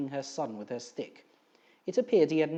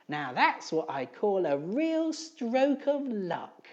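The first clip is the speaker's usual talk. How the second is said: excited; 7 semitones higher, 3 dB louder, much slower than usual. Acted. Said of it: "he shouted over the noise".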